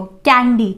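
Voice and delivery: कैंडी said with a clear hard k; showing the k sound. Shown as a demonstration. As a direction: let the k of "कैंडी" be heard. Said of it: "अब आप आवाज़ करके देखो".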